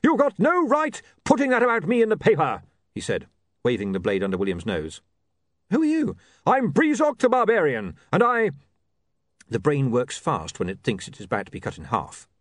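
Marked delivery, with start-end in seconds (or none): 0.0-8.5 pitched-up, loud, aggrieved complaint; a brute storming in to complain; barbarian with a grudge. Acted. Barbarian confronting William about the newspaper.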